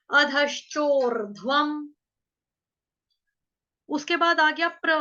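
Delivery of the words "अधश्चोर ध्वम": अधश्चोर ध्वम stretched slowly; slow recitation. Shown as a demonstration. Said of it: "इसको मैं हटा रही हूँ".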